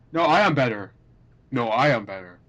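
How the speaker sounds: flat creepy robot voice; robotic voice. Retold or imitated. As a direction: stiff synthetic game voice. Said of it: "those disturbing, like, robotic voices".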